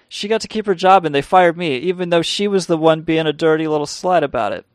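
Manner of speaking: indignant rant. Real, not acted. Ranting about being fired.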